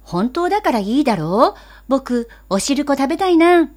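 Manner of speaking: put-on pleading boy. Boy pleads after scolding.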